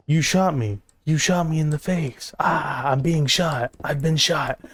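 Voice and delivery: overacted victim moaning about being shot; hammed-up shot victim. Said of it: "Bad acting".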